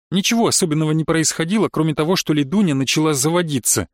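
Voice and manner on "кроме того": plain reading voice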